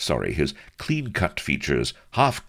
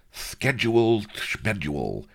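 crowing; 7 semitones higher than usual. A narrator's reading. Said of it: "crowed the rotund amorist".

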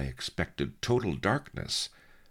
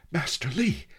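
high, loud urgent call; gasped cry; 14 semitones higher, 5 dB louder than usual. A narrator's reading. Diver surfacing by the raft calls to his master, gasped cry. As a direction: cry out as if just surfacing, gasping. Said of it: "I gasped".

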